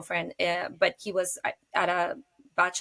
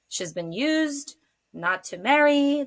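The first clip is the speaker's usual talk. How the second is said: mocking red-pill commenter; 6 semitones higher, slower than usual. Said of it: "red pill comments".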